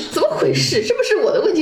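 mock whiny complaint. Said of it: "imitating old self-doubt".

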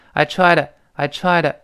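I TRIED TO as "I try-duh"; lightly voiced TO. Shown as a demonstration. Teacher models for learners, TRIED TO blurred into "try-duh". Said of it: "有这么一个声音".

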